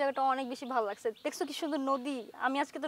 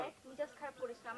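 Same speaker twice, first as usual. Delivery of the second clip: hissed warning; 3 semitones lower, 14 dB quieter, faster than usual. Acted. Wife warning husband in quarrel.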